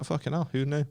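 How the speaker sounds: laughing, a yelp of fake shock; hammed-up shock at a cereal box; mock amazement. A lad mocks himself reading cereal boxes, in laughing mock shock. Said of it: "I'm like".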